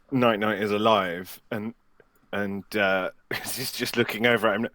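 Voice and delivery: ordinary talk, nothing marked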